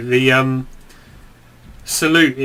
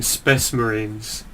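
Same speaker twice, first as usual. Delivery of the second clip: mock commander quote; 4 semitones lower, 4 dB quieter, much slower than usual.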